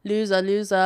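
mock taunting laugh and jeer; retold gloating, lightly hammed-up; trolling. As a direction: playfully rub it in like a teasing child. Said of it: "I was just trolling him".

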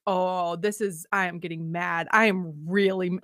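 low, held-back inner voice getting mad; understated warning to oneself; retold simmering anger. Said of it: "I'm about to yell at my kids".

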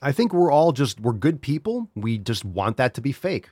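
usual speaking voice

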